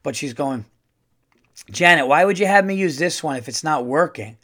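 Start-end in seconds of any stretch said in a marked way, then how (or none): 1.7-4.4 lightly voiced exasperated older woman, swinging up in pitch; mock griping old-school lady; sitcom old-school woman. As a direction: complain with a hint of a sitcom busybody. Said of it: "it was like a sitcom character".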